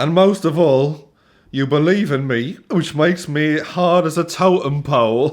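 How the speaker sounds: put-on standard British accent. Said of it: "I'm just gonna do generic British accent".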